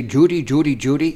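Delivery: lightly put-on transatlantic accent doing Cary Grant; a hint of Cary Grant's old Hollywood accent; Cary Grant impression. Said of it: "it sounds like Cary Grant".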